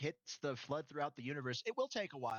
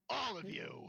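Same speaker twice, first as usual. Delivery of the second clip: high, smug battle taunt; cocky taunt; 10 semitones higher than usual. Acted. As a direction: sneer it at the enemy.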